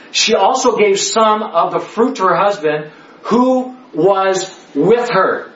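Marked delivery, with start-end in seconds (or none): 3.9-5.5 "with" dwelt on, slowly, with a falling tune; slow emphasis. Shown as a demonstration. Teacher to class, slowly stressing "with her". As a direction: stretch out "was with her" word by word. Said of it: "this is very key here".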